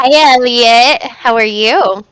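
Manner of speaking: slow, spoken into headphones; headphones used as mic. Real, not acted. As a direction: voice through headset mic. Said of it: "you're talking to headphones".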